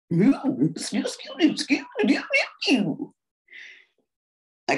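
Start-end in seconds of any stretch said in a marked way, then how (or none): 0.1-3.0 high, babbling comic sputter; Bill Cosby impression. Comedian riffing at Mary, hammed-up Cosby babble. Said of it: "Here's Bill Cosby".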